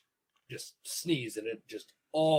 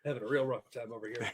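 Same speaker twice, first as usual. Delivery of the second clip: smoker's rasp; faster than usual. Real, not acted. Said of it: "Real smoker's cough over here".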